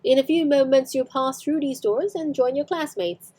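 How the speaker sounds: "doors" with a rolled rhotic R, lightly Edinburgh. Retold or imitated. Teacher shows students the Edinburgh R in "doors". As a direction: stress the R in "doors" Edinburgh style. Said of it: "You can hear the rhotic R at the end of the word doors".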